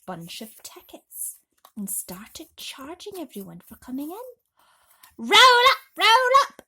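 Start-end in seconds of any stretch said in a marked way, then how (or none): 5.2-6.6 high, loud carnival barker cry; yelling. Acted. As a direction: bellow it out to the crowd. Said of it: "Aunt Spiker yelled".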